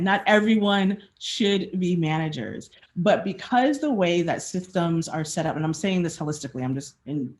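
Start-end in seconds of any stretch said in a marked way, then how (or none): 0.0-2.7 deliberate, emphatic repeat for weight; slow repeat. Real, not acted. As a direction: say it slowly so it sinks in. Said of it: "slowly. And again".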